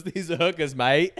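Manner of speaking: laughing light Australian twang; hint of Aussie mate, amused; Australian accent, lightly done; mild Aussie accent. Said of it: "kicked down the door and goes".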